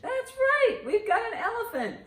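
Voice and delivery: high delighted praise; excited praise. Real, not acted. Grandma cheering a correct answer for Grandma Lou.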